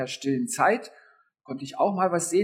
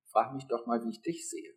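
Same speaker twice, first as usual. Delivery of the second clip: softer, fading into a near-whisper; gentle hushed voice of God; 5 semitones lower, 6 dB quieter than usual. Retold or imitated. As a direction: let God's question fall to a hush. God speaks to her softly.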